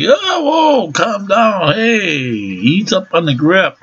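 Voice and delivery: high, strained plea to let go; mock yelp of pain at the grip; man begging his girlfriend to ease her grip. Her claws digging in leg.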